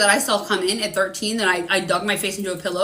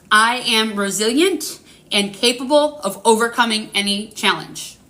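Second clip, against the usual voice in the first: affirmation read. Shown as a demonstration. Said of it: "I'm gonna say this three times".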